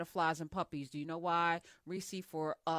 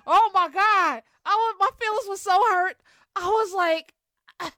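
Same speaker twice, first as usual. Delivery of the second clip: mock outrage; 11 semitones higher, 10 dB louder than usual. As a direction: replay the sting of reading those tweets. Recalls hurtful tweets about him.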